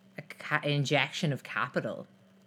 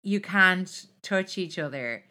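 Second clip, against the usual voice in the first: mock boo-hoo; 5 dB louder than usual. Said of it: "I'm a bit like".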